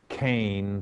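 kane said slowly like cane, one clear syllable; Hebrew word said carefully. Shown as a demonstration. Radio host tells caller how to say grace in Hebrew, kane said slowly like cane. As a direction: spell out kane by ear, rhyming with cane. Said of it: "phonetically spelled out K H A N E".

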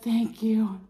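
breathy grateful whisper; whispered thanks. Retold or imitated. Thanking the server, whispered. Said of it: "I'm like".

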